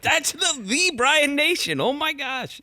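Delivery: imitating a starstruck local; starstruck gush. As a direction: gush like meeting a saint.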